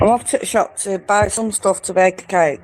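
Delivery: casual British accent, lightly demonstrated; British accent demo. Shown as a demonstration. Asked by the host how she says it, British accent demo. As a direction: show your everyday British accent. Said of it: "let's hear how you say it".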